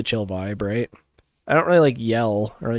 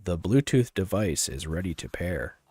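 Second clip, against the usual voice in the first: slightly deeper device announcement; 3 semitones lower than usual. Shown as a demonstration. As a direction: speaker prompt pitched a little down. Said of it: "here, I'll use my deeper voice".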